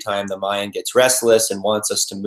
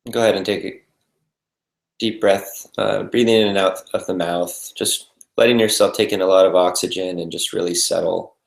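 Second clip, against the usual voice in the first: calm, unhurried meditation guidance with long pauses; guided meditation. Real, not acted. Meditation teacher settling the group into breath and body, calm and spacious. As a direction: lead them gently into stillness, leaving space between phrases.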